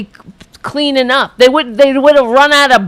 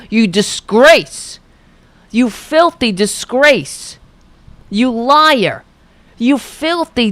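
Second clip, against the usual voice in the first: contemptuous insults. Real, not acted. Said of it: "I don't know why I'm talking like that".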